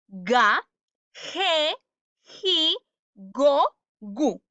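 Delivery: "Ga, ge, ji, go, gu" with raspy Spanish j only in "ge, ji"; teacher's drill, "ge" said like "je", hard g in "Ga, go, gu"; correct G syllables. Shown as a demonstration. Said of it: "¿Cómo se pronuncia entonces?".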